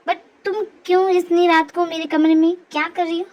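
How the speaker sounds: put-on annoyed young man. Man questioning Jimin in his room at night, annoyed. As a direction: put on a low man's voice, questioning the intruder.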